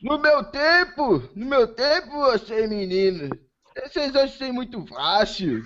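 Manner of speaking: lightly voiced grumpy old man. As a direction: grumble like a cranky grandpa. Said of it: "Vou fazer voz de velho agora".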